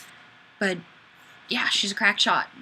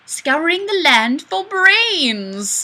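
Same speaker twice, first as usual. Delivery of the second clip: slow zombie; 7 semitones higher, 6 dB louder, much slower than usual. Acted. Zombie line read slowly.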